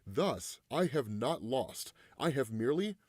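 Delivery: measured, deliberate villain monologue; lightly voiced proud supervillain, pausing between phrases; grandiose villain. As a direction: read it as a villain's proclamation. Reads out villain's speech.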